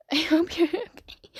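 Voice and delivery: slow, giggling I hope you're okay; slow line with a laugh inside. Shown as a demonstration. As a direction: laugh through it.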